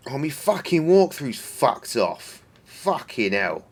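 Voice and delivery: a put-on Cockney moan, drawn out; Cockney accent. Annoyed at the vanished walkthrough, in a slow put-on Cockney accent. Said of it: "That was more of a Cockney accent".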